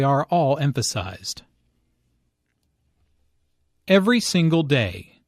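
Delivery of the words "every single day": "Every", "single" and "day" hit equally; each word stressed. Shown as a demonstration. Teacher showing how the speaker makes a point, every word stressed. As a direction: punch all three words evenly. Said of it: "each word here is stressed".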